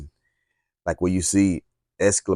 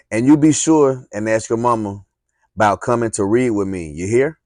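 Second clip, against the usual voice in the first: hollered; 3 semitones higher, 6 dB louder than usual. Acted. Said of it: "She hollered at me".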